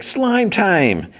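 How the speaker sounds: very high mock battle cry; hyped catchphrase cry. Answer to the champion's catchphrase, high hyped cry. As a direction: sing it out high like a slogan.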